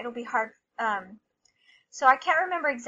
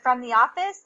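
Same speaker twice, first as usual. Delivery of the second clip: retold call over a loud machine; louder, questioning lift at the end; raised voice over noise; 6 dB louder than usual. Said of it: "like, really loud over the machine".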